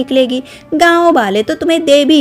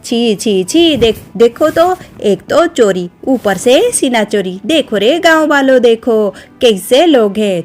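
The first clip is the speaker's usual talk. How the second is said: angry taunting. Acted. Shashirekha taunting Kalavati before the villagers, angry raised jeering. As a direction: jeer at them so the whole village hears. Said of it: "बहुत जोर से चिल्लाकर बात".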